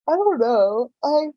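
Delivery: words through a yawn. Real, not acted. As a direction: talk while yawning. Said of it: "I keep yawning".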